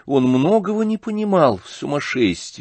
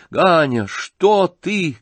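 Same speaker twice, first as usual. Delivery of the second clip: high, loud appeal; alarmed cry; 8 semitones higher, 4 dB louder, much slower than usual. A narrator's reading. Mother rushing to stop her son, alarmed cry. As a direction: call out sharply in raised pitch. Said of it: "крикнула Нина Александровна".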